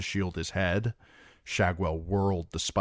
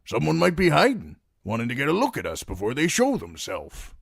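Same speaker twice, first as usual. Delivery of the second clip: Brienne warning; 9 semitones higher, 4 dB louder, faster than usual. A narrator's reading. Brienne voiced in story.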